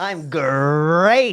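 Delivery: very enthusiastic voice. Answering how everyone is doing today: very enthusiastic. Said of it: "Coming in really hot".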